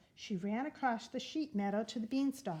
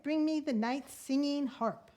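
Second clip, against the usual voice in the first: a touch louder giant demand; giant cries out; 4 semitones higher, 3 dB louder than usual. Acted. Giant calling for the stolen harp, mild shout. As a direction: call for the harp like a greedy giant. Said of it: "he cried".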